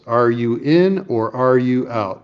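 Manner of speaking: drawn-out blunt ultimatum, stress on "in" and "out"; slow and pointed. Retold or imitated. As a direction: spell out "Are you in or are you out?" slowly, word by word. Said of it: "one syllable words".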